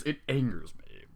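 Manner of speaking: plain reading voice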